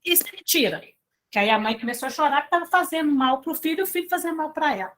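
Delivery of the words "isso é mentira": shocked denial. Retold or imitated. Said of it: "Aí ela falou assim".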